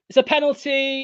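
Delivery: rising panic at the penalty call; excited outburst. Real, not acted. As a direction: blurt it out in disbelief. Opponent concedes late penalty.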